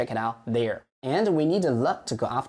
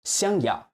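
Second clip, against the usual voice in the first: 想要 with the weight on 要, said clearly; correct stress on 想要; 4 semitones higher than usual. Shown as a demonstration. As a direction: stress 想要 the teacher's way. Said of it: "The problem lies in his stress".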